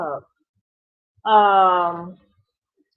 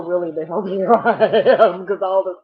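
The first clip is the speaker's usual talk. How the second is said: laughing through the words; 7 dB louder than usual. Real, not acted. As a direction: chuckle at her own contradiction. Laughs about being sick.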